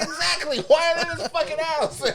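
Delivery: high, loud, laughing retort; mock shouted comeback. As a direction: yell back in hammed-up outrage. Retold shouted comeback in the row.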